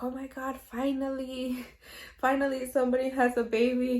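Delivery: lightly voiced thrilled brother; delighted relief. Brother learns a baby is coming, mildly excited relief. Brother reacting to pregnancy news.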